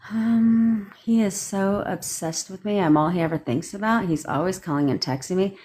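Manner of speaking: hesitant, each line rising like a question; uncertain tone. Shown as a demonstration. Coach showing how unsure affirmations sound. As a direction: doubt every word, starting with um. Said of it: "That's uncertainty".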